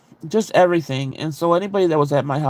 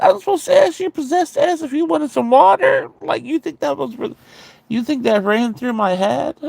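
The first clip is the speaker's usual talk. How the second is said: retold indignant disbelief; 10 semitones higher than usual. Sister answering possessed brother's water complaint, indignant disbelief. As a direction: throw the absurd complaint back in high pitch.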